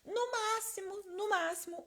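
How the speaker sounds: high-pitched, emphatic mock warning; sing-out high caution to a patient; playful warning. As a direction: repeat it way up high, like teasing a patient. Acted warning to peeling patients.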